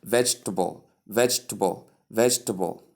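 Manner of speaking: vegetable in three syllables, VEJ-tuh-bul; correct pronunciation. Shown as a demonstration. Teacher models the word vegetable for learners, correct three-syllable pronunciation. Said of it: "that's the right pronunciation".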